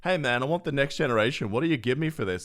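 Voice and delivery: customer voice. Retold or imitated. Customer voiced trading in a console.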